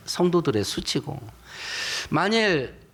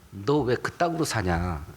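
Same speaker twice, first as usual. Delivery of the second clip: low, slow rebuke; 5 semitones lower, slower than usual. Retold or imitated. Lowly boatmen rebuking Jonah, low and slow. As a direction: lower and slower, a heavy reproach. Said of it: "이렇게 책망을 들어요".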